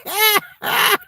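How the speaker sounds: can barely get the words out for laughing; laughing hard. Real, not acted. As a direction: laugh through the words, almost crying. Laughing while talking.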